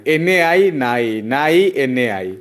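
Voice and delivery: slow call and response. Shown as a demonstration. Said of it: "हम बोलेंगे नाई तो तुम बोलोगे".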